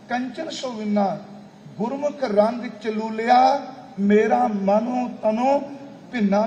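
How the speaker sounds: declaimed sacred verse, slowing as it builds; measured, rising verse recital; scripture recitation. Acted. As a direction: recite devotional verse, stretching the closing lines.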